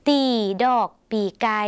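carefully spaced teacher's model of "ตี ดอกปีไก่"; demonstrated Lao term. Shown as a demonstration. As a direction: say "ตี ดอกปีไก่" word by word, with spaces between. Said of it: "จึงเรียกกีฬาปร".

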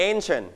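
"ancient" said carefully, stressed on the first syllable; model pronunciation. Shown as a demonstration. Teacher asks class to repeat, carefully stressed "ancient". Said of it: "repeat after me".

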